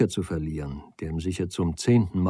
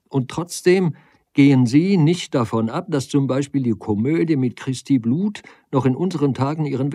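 vexed, raised-pitch challenge; indignant doctor, higher and emphatic; annoyed; 6 semitones higher, 5 dB louder than usual. A narrator's reading. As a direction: argue back in irritation, driving on. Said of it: "sagte der Doktor verärgert".

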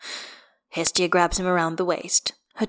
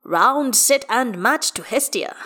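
higher, referee-like announcement; declaring; 7 semitones higher, 5 dB louder, slower than usual. A narrator's reading. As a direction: proclaim the winner with relish. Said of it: "Will declares".

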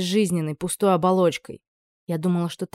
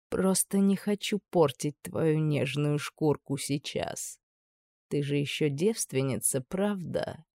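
softer, slow, predatory taunt; quiet leering menace; 2 semitones lower, 5 dB quieter, slower than usual. Acted. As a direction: lean in and taunt her quietly. Horn taunts the frightened girl.

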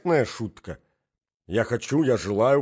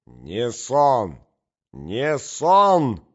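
louder, rising fury on each cry; mother's enraged cry, climbing higher; furious shout; 4 semitones higher, 8 dB louder, much slower than usual. A narrator's reading. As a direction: shout it in a rage at the prince. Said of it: "закричала в ярости".

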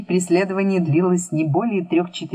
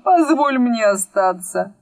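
raised, imploring request; pleading; 6 semitones higher than usual. A narrator's reading. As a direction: beg in a high voice. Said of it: "взмолился великий рассказчик".

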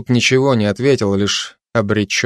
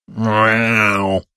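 grumbling meow. Acted. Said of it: "продолжал ворчать кот".

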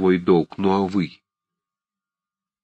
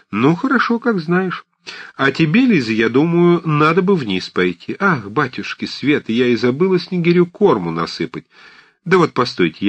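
put-on high, loud old woman's chatter; fussy old aunt; 9 semitones higher, 6 dB louder than usual. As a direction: play a bustling old aunt fussing at everyone. Old aunt Marfa voiced. (суетливая старушка, высоким громким голосом)

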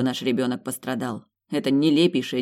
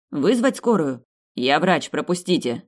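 urgent call; 2 semitones higher, 6 dB louder than usual. Acted. Doctor pushes through crowd.

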